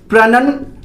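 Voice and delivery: only "pruh-nun" of "प्रोनाउंसिएशन", rising; teacher's rising "pruh-nun"; correct pronunciation, first part. Shown as a demonstration. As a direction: break off "प्रोनाउंसिएशन" after a short "pruh-nun". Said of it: "इसका जो सही उच्चारण है".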